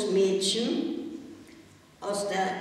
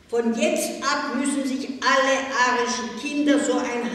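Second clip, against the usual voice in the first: herrische Anordnung; 5 semitones higher, 6 dB louder than usual. A narrator's reading. Pella erlässt neue Regel.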